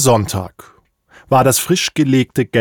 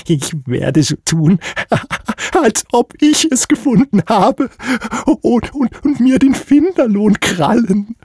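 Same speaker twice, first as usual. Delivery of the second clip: high, sneaky rat voice with giggles; mustache twirling villain; 11 semitones higher than usual. Acted. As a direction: giggle and scheme like a sly rat. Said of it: "versteckte kichernd".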